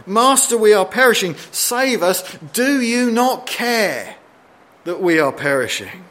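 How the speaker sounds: high, pleading accusation at the Master; accusing tone. Retold or imitated. Disciples accusing Jesus in the storm, high and pleading. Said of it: "notice the underlying tone".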